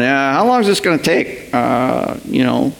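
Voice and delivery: impatient disciples. Retold or imitated. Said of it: "looking in and going".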